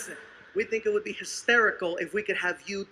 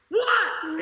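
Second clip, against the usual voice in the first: high, sharp "what"; acted angry demand; 8 semitones higher, 4 dB louder than usual. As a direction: burst out with it, pitch jumping up. Man flinging door open.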